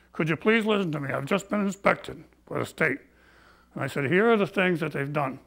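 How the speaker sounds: breathless, gasping between phrases; short of breath. Real, not acted. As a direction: talk through a tight chest. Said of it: "Excuse me if I'm short of breath 'cause I have C O P D".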